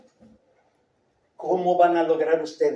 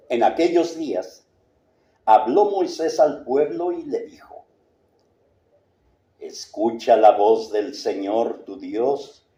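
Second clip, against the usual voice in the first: solemn reading; 4 semitones lower than usual. Shown as a demonstration. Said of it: "Es solemne".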